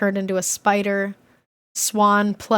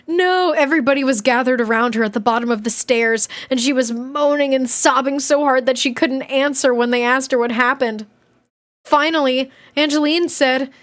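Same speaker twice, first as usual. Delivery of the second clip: animated diary read-aloud; expressive storybook reading with swooping tune; story narration; 3 semitones higher than usual. A narrator's reading. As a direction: read a kid's diary with lively emphasis.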